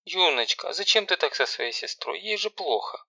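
high, flustered mother's voice; a confused mother pleading gently; lightly voiced flustered mum; bewildered mother. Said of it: "растерянно".

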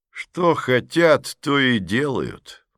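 slow murky agreement; vaguely. Acted. Man in the hat vaguely agrees with the lady. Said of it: "туманно подтвердил".

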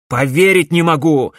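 loud shocked cry; can't take it in; loud disbelief. A narrator's reading. Alex cries out in disbelief at his mother.

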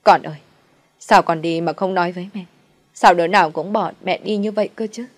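loud grieving lament over a son; mournful wailing. Acted. Mother lamenting over her dead son's body, loud wailing. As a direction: wail out the grief, loud and broken. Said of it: "ôm lấy con trai khóc thê lương".

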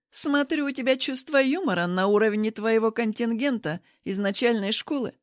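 mocking jab. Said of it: "бросила Рита".

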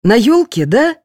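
put-on eager girl looking around; lightly voiced excited girl; eager question. A narrator's reading. Patient eagerly asking.

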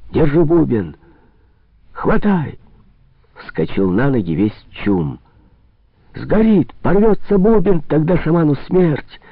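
frightened crowd yelling; alarmed shouts. A narrator's reading. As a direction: shout in alarm to save the drum.

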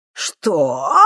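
outraged what; indignant. A narrator's reading. Professor outraged by the thief, indignant. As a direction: bristle with outrage. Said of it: "возмутился он".

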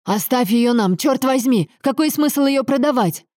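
indignant, climbing plea; exasperated demand. A narrator's reading. Son demands the factory, cursing.

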